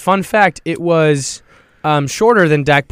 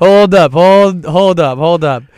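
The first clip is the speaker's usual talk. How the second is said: louder, higher hold up, calming down; excited disbelief; 4 semitones higher, 7 dB louder, slower than usual. Retold or imitated. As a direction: demand a pause in giddy shock. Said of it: "I was like".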